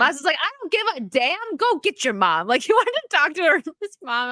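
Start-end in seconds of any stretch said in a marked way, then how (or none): 0.4-2.5 high-starting mock defiance; mock defiant retort, pitched up at first; retold swearing. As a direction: imitate a friend telling someone off. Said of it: "Maza was, like, swearing".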